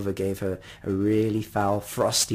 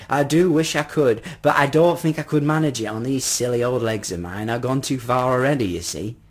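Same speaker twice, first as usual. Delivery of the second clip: lightly voiced, emphatic old gentleman; regretful old man; 5 dB louder than usual. Old man excusing himself from walking, lightly voiced and regretful. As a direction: lament your tired legs, a hint of old man.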